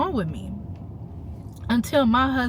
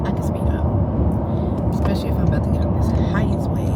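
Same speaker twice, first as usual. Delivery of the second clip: whispered aside; faster than usual. Real, not acted. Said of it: "whispered aside while driving".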